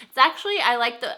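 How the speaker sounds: stumbling after biting tongue; words tripping over a bitten tongue. Real, not acted. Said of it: "I just bit my tongue".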